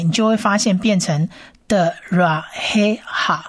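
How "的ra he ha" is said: 的ra he ha whispered; whispered blend. Shown as a demonstration. Teacher whispers the whole word. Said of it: "整个字发音起来".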